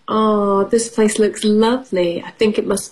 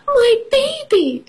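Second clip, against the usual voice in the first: mother's relieved cry. Acted. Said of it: "says Mother Mouse".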